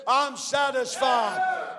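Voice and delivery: the Father declaring, slow and shouted; the Father pronounces the sacrifice accepted, slow thunderous shout; God's proclamation. Acted. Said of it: "and the Father said".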